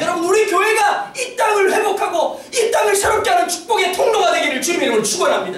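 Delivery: high, ringing benediction settling at the close; preacher's blessing. Real, not acted. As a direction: declare the blessing, then land it firmly. Pronounces a blessing on church.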